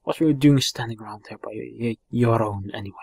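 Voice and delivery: a lightly voiced chatty Welsh fairy; cheeky sidekick voice. Sidekick hailing the boy, cheeky and chatty. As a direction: hail the boy like an old mate.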